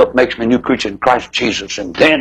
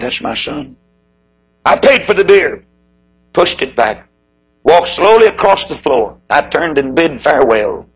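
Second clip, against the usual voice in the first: lightly recited verse; poem recitation; 2 semitones higher than usual. Acted. Preacher reciting a poem about a father's beer, lightly recited. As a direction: read it as a heartfelt poem.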